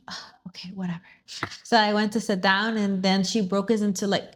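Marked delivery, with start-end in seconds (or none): 0.1-1.0 retold attitude. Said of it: "you give attitude".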